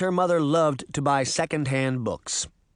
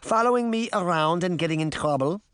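chiding granny; 3 semitones higher than usual. Acted. Granny answers Sabrina.

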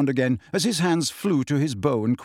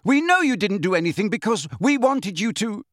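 high, insistent protest; shout; 6 semitones higher than usual. A narrator's reading. Harry unheard by centaurs, moderate shout. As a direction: try to make them listen, voice raised. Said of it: "Harry shouted".

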